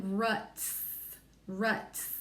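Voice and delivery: ruts said slowly with the t held clear; slow down ruts to show each sound. Shown as a demonstration. Teacher stretching ruts for the class. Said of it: "that T is gonna come next".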